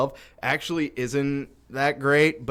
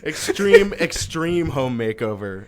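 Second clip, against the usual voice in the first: mock TV title call; 3 semitones higher, 3 dB louder, slower than usual.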